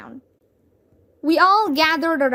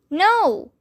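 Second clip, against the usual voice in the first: high, loud shouted No; 6 semitones higher, 4 dB louder than usual. A narrator's reading. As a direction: boys yelling their answer. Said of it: "shouted all the boys".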